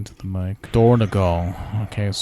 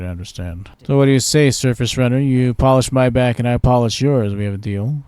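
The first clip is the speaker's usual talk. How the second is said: lightly voiced cheeky merchant; sly trader; 5 dB louder than usual.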